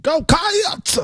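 drawn-out "Cats" with an extra syllable; adding a syllable. Shown as a demonstration. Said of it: "You're adding a syllable".

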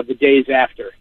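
ordinary talk, nothing marked

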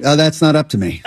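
understated, resigned stepdad. Acted. Guest as coach stepfather passing the decision on, resigned. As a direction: give in mildly, in an everyday pitch. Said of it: "he's accepted".

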